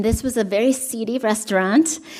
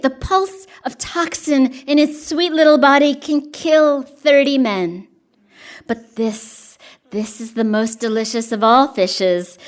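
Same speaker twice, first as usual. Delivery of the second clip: poem reading; 2 semitones higher than usual. Acted. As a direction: savour each line as you read the poem. Reads the fugu poem.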